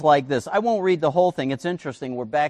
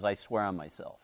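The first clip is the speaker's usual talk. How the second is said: God swearing solemnly; 7 semitones lower, 10 dB quieter than usual. Retold or imitated. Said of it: "He says".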